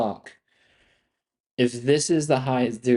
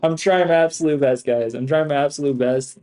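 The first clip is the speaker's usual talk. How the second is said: louder plea; 3 semitones higher, 5 dB louder than usual. Real, not acted. Exasperated plea to viewers.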